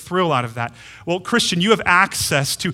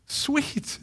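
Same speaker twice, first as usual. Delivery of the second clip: gaze at your newborn and melt; loving murmur trailing into a whisper; tender to a baby; 3 semitones higher than usual. Retold or imitated. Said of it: "looked at them like".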